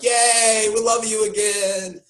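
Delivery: high, sing-out fake celebration; hammed-up crowd welcoming a hero back; mock cheering. Imitating the tribe when he shows up, high mock cheer. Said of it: "they're all like".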